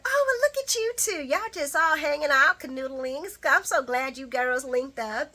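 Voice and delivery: sweet Brooklyn voice. Retold or imitated. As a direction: gush at the two girls in a high voice. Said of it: "Brooklyn's like".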